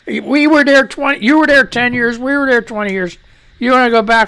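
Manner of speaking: mock lecture to Russia, loud; ranting. Real, not acted. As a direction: shout it at them.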